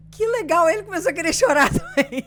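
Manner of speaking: exclamação alta, rindo emocionado. Retold or imitated. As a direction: conta rindo, quase chorando de emoção. Marido emocionado, risos. (contando rindo e emocionada)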